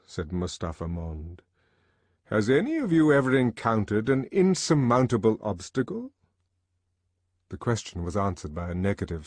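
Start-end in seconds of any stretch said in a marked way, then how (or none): 2.3-6.1 loud, raised challenge; emphatic rhetorical questioning; lecturing controller. A narrator's reading. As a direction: put it to the class oratorically.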